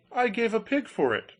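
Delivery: eager Hans voice. Acted. Hans answers.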